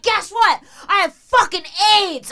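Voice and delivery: high, loud taunting squawk; menacing homeless woman. Retold or imitated. Homeless woman threatening the giver, loud and shrill. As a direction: taunt with glee to scare her. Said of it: "she's like".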